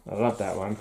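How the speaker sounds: quietly moved, on the edge of tears; tearing up. Real, not acted. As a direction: let the emotion catch your voice. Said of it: "If you can hear it in my voice".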